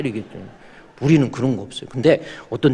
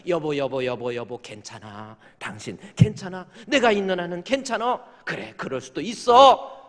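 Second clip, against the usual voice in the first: calm her down gently; tender comfort; 3 semitones higher than usual. Retold or imitated. Believing husband comforts his wife.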